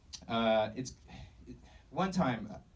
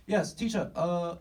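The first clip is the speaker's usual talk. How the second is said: high, louder student with a badly faked Asian accent; 8 semitones higher, 5 dB louder, slower than usual. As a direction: put on a clumsy Asian accent, pitched up. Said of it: "I'm just really bad at accents".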